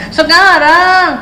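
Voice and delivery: slow, stretched-out demand; insistent child. Retold or imitated. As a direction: drag it out like a stubborn kid. (anak ngotot dengan suara ditarik panjang)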